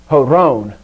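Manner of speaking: Horon stressed on the last syllable, "ho-RON"; teacher's careful "ho-RON" for Horon; accent shift. Shown as a demonstration. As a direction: model Horon with the weight on RON. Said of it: "the accent shift".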